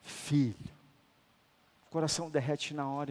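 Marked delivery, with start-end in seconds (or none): 0.0-0.7 a hint of God's tender voice; tender fatherly call. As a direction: call "Filho" gently like a loving father. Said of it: "Deus mais fala comigo é assim".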